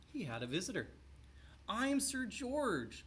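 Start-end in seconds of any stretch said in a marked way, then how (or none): 1.7-3.0 very high, slow squeak; squeaky knight. A narrator's reading. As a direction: squeak it out like a thin, nervous knight. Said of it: "squeaked a thin, shiny knight".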